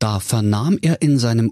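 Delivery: ordinary delivery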